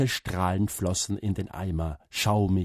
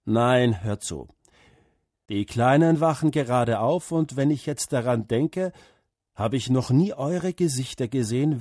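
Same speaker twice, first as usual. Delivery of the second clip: lightly voiced moved father; 3 semitones higher than usual. Father gently tells his son to come see the tree. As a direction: speak as a tender farmer father.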